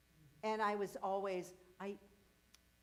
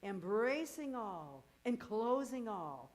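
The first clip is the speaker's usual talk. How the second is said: ecstatic proclamation; 3 semitones higher, 6 dB louder, slower than usual. Retold or imitated. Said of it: "Now she's saying".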